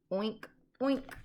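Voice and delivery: a lightly voiced piggy oink. A narrator's reading. Recapping the book for the child, a light playful oink. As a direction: give a gentle playful oink. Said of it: "And the pig says".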